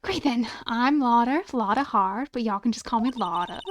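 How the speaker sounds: lightly played friendly Southern woman; half-hearted Southern accent. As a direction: introduce yourself with a rough country twang. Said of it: "you're getting a half-assed accent from me".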